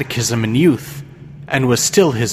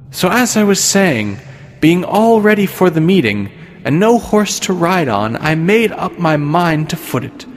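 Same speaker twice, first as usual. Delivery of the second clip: imperious plummy grande dame; 3 semitones higher than usual. Acted. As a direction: play a haughty pious old lady. Goody Cloyes asks for his arm.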